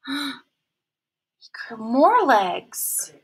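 gasping hushed whisper; excited whisper. Acted. Teacher revealing to kids, awed whisper. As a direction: whisper it with wonder.

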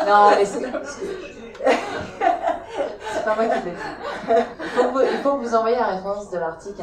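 laughing. Real, not acted. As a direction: talk through real laughter while defending yourself. Guest laughing while defending herself. (en riant, plus aigu et plus fort)

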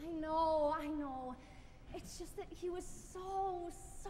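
upset, halting confession; choked-up longing, breaking off unfinished; worked up, tearful. Acted. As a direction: let the words trail off as tears threaten. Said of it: "why are you getting all worked up".

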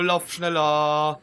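loud, slow, drawn-out shout of panic; urgent shout. Real, not acted. Urging partner during chase.

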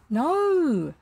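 high, loud, ringing no; scornful. A narrator's reading. Boy rejects the captain's guess, scornful. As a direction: let the refusal ring out, drawn out.

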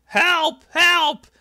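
loud, very high cry for help; mock screaming. Podcaster imitating Mickey crying help backstage, mock scream. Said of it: "Mickey starts screaming".

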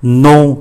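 "Non" with a nasal on, final n unsounded; nasal vowel. Shown as a demonstration. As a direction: let "Non" ring through the nose. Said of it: "là âm mũi". ("Non" đọc âm mũi)

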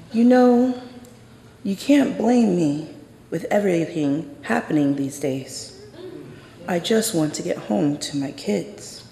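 a hint of a cop turning chatty; suddenly friendly cop. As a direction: switch to a breezy, friendly tone. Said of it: "And she says".

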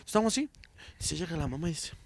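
ordinary talk, nothing marked

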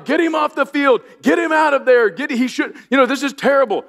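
the wife at the game, yelling for the coach to pull her son; retold yelling. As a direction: shout it like a panicked mother. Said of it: "she keeps yelling".

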